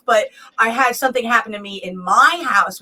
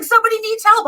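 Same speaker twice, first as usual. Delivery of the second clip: higher, worried mom; mom's voice; 11 semitones higher, faster than usual. Retold or imitated. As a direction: raise the pitch for a concerned mother. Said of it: "She's like".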